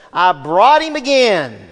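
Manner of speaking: laughing friend. Retold or imitated. Friend at the game introduces me with a laugh, loud and slow. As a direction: friend laughing while teasing the crowd about me, loud and slow. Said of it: "my friend says".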